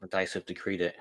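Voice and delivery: fancy lisping voice. Acted. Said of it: "I don't think you had a lisp before".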